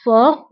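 "Fort" said as for, with no t at the end; silent final t. Shown as a demonstration. Teacher showing students that the t of fort is silent. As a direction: close "Fort" on the r and drop the t. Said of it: "تي لا تنطق في آخر الكلمة".

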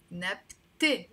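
نبتة with the last vowel as e, not a; final e sound. Shown as a demonstration. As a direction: say نبتة as "nabte", ending in a clear e. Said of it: "with a A".

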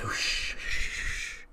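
whispered shushing; a whispered hush to quiet her. Retold or imitated. Garth whispers to Maria to stop talking, hushing.

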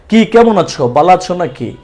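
lightly mimicked Dhakaiya accent; casual greeting in a Dhakaiya accent. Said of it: "Dhakaiya accent".

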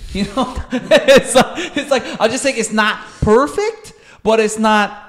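talking through laughter; laughing. Real, not acted. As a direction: laugh while you get the words out. Laughs at his own joke.

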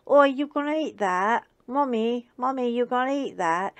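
dog George mooching food from mommy, high and eager; voicing the dog George. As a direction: beg for food like a cheeky dog. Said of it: "exactly the way he sounds to me".

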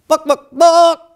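high, loud hen squawk "Book, book, book!"; chicken clucking. Acted. Chicken asks for more books.

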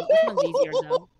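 high, squeaky cartoon mouse voice; Mickey Mouse voice. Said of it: "Mickey Mouse impression?".

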